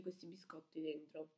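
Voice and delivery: eating between words; talking while chewing. Real, not acted. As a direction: mouth partly full. Seen 2: Both hold bitten crepe pieces; speaker talks between bites, chewing.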